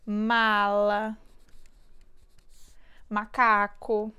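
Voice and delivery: spacing each word out for dictation; slow dictation. Shown as a demonstration. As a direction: dictate the words one by one to a child. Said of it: "como, por exemplo".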